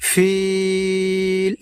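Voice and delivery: ফিল with the ি held very long; long vowel drawn out. Shown as a demonstration. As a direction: draw out the vowel in ফিল slowly. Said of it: "এখানে আমরা টান দিয়ে লম্বা উচ্চারণে". (ফিল, লম্বা টান)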